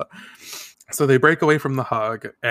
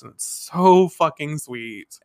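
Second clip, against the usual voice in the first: ordinary talk, nothing marked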